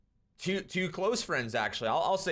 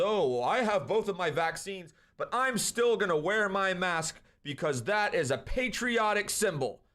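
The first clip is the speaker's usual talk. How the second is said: mocking Biden; 3 semitones higher than usual. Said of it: "Biden comes out and he says".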